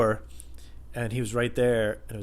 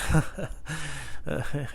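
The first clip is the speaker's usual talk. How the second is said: small chuckle; 4 semitones higher, 5 dB quieter than usual. Retold or imitated. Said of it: "not fake laughed".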